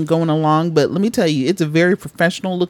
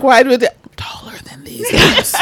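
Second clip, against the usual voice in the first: silly clown; 5 semitones higher than usual. Retold or imitated. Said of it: "she was like".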